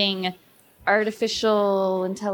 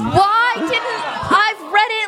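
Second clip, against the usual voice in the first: excited; 9 semitones higher, slower than usual. Real, not acted.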